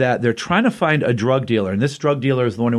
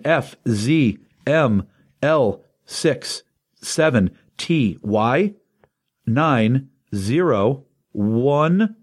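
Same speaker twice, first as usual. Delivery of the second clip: dramatic code reading; much slower than usual. Real, not acted. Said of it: "I like how you made that an adventure".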